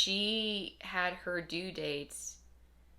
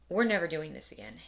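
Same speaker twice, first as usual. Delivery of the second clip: louder, blunt vow; firm declaration; 6 dB louder than usual. Retold or imitated. Husband and wife out of the blue, a louder flat vow. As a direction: say it out loud and final. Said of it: "one of us will be like".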